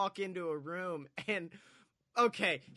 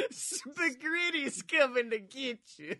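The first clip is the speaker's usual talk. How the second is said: spooky monster voice; 5 semitones higher than usual. Pretend. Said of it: "a monster ... that's Spaghetti".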